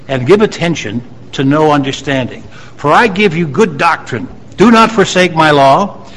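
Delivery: emphatic Bible reading to a congregation; declaimed scripture. Real, not acted. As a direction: read the verse out firmly, lifting key phrases. Reads proverb aloud to congregation.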